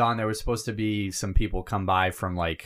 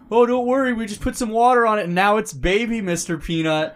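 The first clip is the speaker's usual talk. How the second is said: cheery ad voice; 8 semitones higher, 4 dB louder than usual. Retold or imitated. Mocking the advertisers' pitch.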